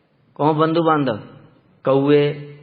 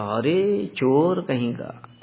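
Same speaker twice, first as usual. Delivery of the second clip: mock scolding; 5 dB quieter, much slower than usual. Mother catches thief red-handed.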